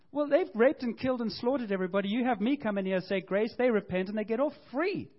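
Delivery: hammed-up grumble of a prophet who saw it coming; ticked off. Jonah complaining to God that he knew it, mock annoyed. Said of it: "And he's so ticked off".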